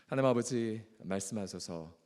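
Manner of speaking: ordinary talk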